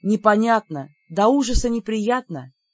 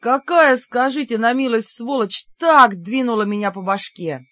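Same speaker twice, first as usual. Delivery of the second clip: angry outburst; 3 semitones higher, 5 dB louder than usual. Acted. Бер wakes up hurt, cursing.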